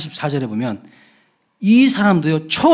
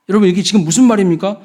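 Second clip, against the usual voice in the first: usual speaking voice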